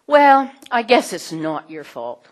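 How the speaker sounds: loud, drawn-out grudging concession; mock half-meant apology, slow and loud; weak apology. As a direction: stretch out a reluctant "well", then concede. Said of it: "Weak apologies".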